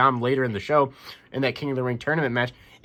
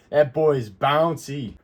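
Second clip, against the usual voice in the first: slow, drawn-out mock hype of the catchphrase; much slower than usual. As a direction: stretch each word out like a chant. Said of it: "everybody's gonna be saying one word".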